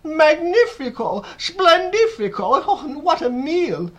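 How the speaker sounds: slow, high, loud rapture; Aunt Sponge crying out. A narrator's reading. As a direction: draw out each gleeful cry. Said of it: "Aunt Sponge cried out".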